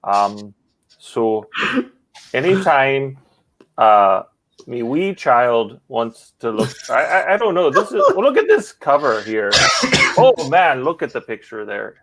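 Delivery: light mock Northern Irish accent drifting Canadian; half-hearted Belfast voiceover; Phil's accent. Dubbing a muted video in a mock Northern Irish accent. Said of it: "The speaker will do the voice".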